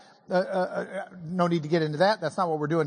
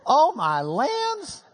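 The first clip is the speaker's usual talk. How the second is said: mock exasperated; 4 semitones higher, slower than usual. Real, not acted.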